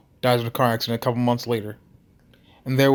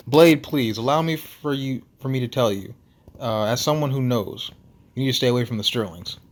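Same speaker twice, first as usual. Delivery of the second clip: put-on earnest warning in a Russian accent; Nikolai. Russian lighthouse keeper warning Blade off the Sterlings, Russian accent. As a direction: caution them as a Russian-accented big man. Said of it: "his Russian accent thick enough".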